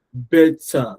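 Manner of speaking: "better" with equal weight on BET and TER; "better" as two full beats, BET-TAH; both syllables emphasized. Shown as a demonstration. Teacher showing learners both syllables of "better", equally emphasized. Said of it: "I emphasized both syllables".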